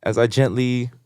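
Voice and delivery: soft, low seductive voice; seductive romance narration. Acted. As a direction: read it like erotic fanfic.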